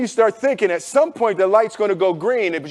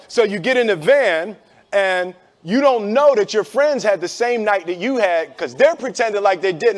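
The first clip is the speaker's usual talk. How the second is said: usual speaking voice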